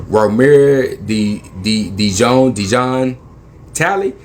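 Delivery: halting, drawn-out mangled name; officer fumbling the name Romero Di- Dijon Talley, slow; officer stumbling on name. Retold or imitated. Officer misreading the driver's name, halting. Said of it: "this is what he says".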